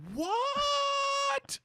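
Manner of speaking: very high, drawn-out incredulous squawk; hammed-up loud cry of disbelief; mock baffled yell. Retold baffled reaction, hugely raised.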